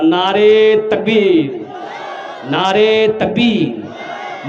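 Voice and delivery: slow, stretched rallying cry; drawn-out slogan call. Real, not acted. Preacher calls the crowd to answer the slogan, long drawn-out call.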